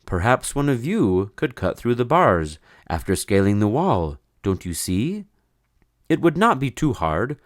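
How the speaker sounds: lightly voiced carpenter; a hint of a plain craftsman; carpenter's voice. Carpenter John proposing a plan to the men. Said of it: "Said he".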